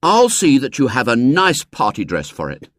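put-on brash boyish promise; a boy showing off to her; confident boy. A narrator's reading. William reassuring.

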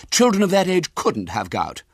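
high, loud, prim busybody voice; a bossy lady interrogating the boy; lifted, carrying voice of a nosy woman; officious lady. Acted. Woman dismisses William's answer.

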